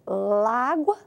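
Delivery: "la água" run together into "lágua"; run-together vowels. Shown as a demonstration. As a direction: slide "la" straight into "água" with one A. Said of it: "a gente falaria".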